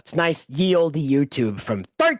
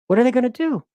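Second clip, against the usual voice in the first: mock panic; 8 semitones higher, 3 dB louder, much faster than usual. Mock panic repeated, higher.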